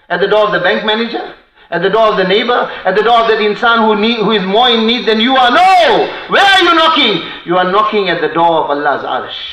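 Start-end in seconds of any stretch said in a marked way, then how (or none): 5.5-7.2 emphatic call. Acted. Preacher's rhetorical climax.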